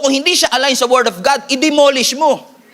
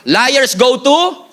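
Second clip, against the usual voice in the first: dragged-out punchline; much slower than usual. Shown as a demonstration. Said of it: "punchline drawn out".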